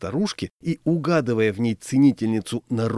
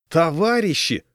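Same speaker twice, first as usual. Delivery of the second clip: high, imploring appeal; mildly desperate plea; pleading; 6 semitones higher than usual. A narrator's reading. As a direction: beg the onlookers for understanding. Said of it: "взмолился я".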